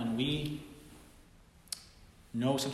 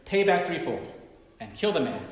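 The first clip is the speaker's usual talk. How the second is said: retold anger; 2 semitones higher, 6 dB louder than usual. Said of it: "David responds in his anger".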